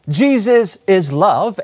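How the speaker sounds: "Jesus is love" said slowly, each word weighed; slow affirming statement. Shown as a demonstration. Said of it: "such as if I were to say".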